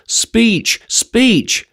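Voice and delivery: high mock scream of a heckler; a crowd wit screaming speech. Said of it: "Some wit was audible screaming".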